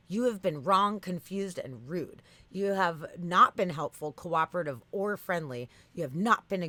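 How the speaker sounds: emphatic, listed-off scolding; mock accusation. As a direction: punch each charge like an indignant bot. Acts out chatbot accusing user.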